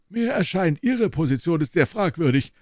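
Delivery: put-on high, hostile old scholar leaning in; angry professor. A narrator's reading. Professor hostilely warning Holmes, high and sharp. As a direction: menace him over the table.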